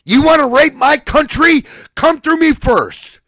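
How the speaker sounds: furious ranting shout; angry shout. Real, not acted. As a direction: yell it straight at your enemies. Ranting threat at enemies.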